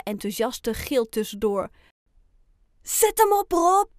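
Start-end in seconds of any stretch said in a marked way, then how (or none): 2.8-3.9 high, loud cheer; father calling out. A narrator's reading. Rob's father encourages his child in the race, calling out. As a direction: cheer him on from the crowd. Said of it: "roept Rob's vader".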